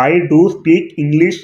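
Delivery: "do" hit hard, whole line very slow; slow, insistent "I do speak English"; emphatic, table-pounding. Shown as a demonstration. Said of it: "బల్లగుద్ది చెప్పినప్పుడు".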